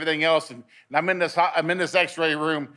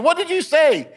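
much higher, insistent demand; retold exasperated question; 12 semitones higher, 4 dB louder than usual. Patient disbelieving the tech's denial, exasperated. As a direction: re-enact pressing hard for an answer.

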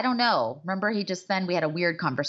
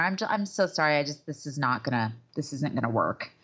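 lower-pitched, apologetic mock rejection; gentle letdown; 6 semitones lower than usual. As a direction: let them down easy, voice dropping. Models a gentle rejection speech.

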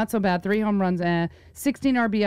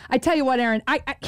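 mock-indignant mother, lightly voiced; fuming mom; 2 semitones higher, faster than usual. Daughter imitating her mom on the phone, fuming. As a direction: imitate a worked-up mom starting to rant. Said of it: "she was fuming".

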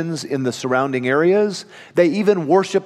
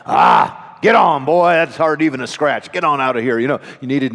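gruff dad; 3 semitones lower than usual. Retold or imitated. Dad waving off his scraped-knee son, gruff mock shout. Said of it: "My dad would always say something like".

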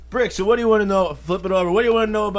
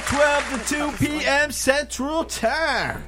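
higher, slow radio announcer; 4 semitones higher than usual. Acted. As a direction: sell the show time like a promo. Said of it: "uh, announcer voice?".

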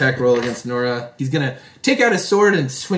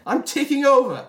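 smug villain; 12 semitones higher than usual. Acted. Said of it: "sort of curl his cap and say".

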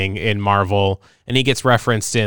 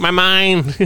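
high, hammed-up outcry; mock anguished stepdad; 9 semitones higher, 3 dB louder than usual. Podcaster joking as the stepdad whose mind is messed with, mock anguished. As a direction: play the stepdad's mock distress.

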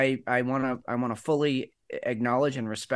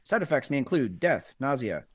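high, loud drug ad pitch; cheerful ad with eerie menace; 5 semitones higher, 4 dB louder than usual. Pretend. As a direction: sell it like a pharma commercial. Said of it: "we should do a drug commercial for that".

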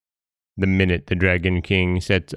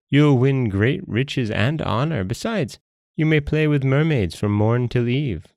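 higher, lilting sales pitch from a jellyfish; persuasive jellyfish; 4 semitones higher than usual. Acted. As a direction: tempt the monkey with each delight.

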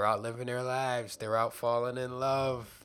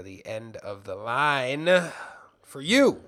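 mock villain; 10 dB louder, slower than usual. Mock ominous sign-off.

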